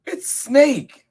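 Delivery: high, loud squeaky announcement; piercing little mouse voice; excited mouse. Acted. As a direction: squeal out who it is. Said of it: "said the mouse".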